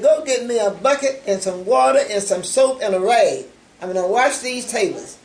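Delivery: firm, loud command to the room; ringing loud instruction; strong loud voice. Retold or imitated. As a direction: call out the order with force. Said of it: "in a real strong, loud voice".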